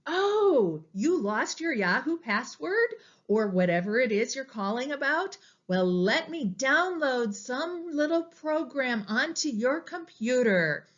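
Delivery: lightly acted helpful call-center agent, lilting; mock-sympathetic "Oh", then eager helpfulness; nice, insistent scammer. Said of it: "who are very nice and very insistent".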